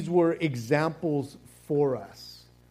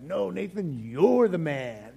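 slow mock insistence. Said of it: "It's like".

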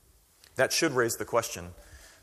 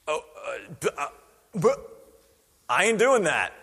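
mock balking; 3 semitones higher than usual. Peter balking at eating flesh.

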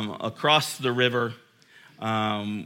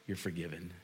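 much softer echo of you're forgiven; near whisper; 6 semitones lower, 15 dB quieter, faster than usual. Real, not acted. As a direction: let it drop to almost nothing. Sermon hushed repeat.

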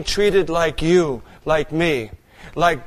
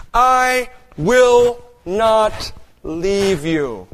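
voice of the Lord; 2 semitones higher, much slower than usual. Acted. God's promise voiced slowly.

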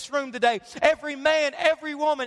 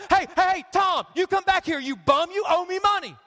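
mock tax collector yelling. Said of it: "he's yelling at 'em".

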